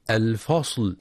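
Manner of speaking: الفصل with a dark, thickened fa; wrongly emphatic fa in الفصل; heavy fa error. Shown as a demonstration. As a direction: say الفصل with a backed vowel, like "al-fosl". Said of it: "بالتفخيم".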